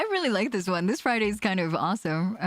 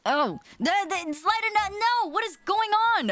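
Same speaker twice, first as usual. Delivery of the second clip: surprised; 12 semitones higher than usual. Real, not acted. Shocked by food combo.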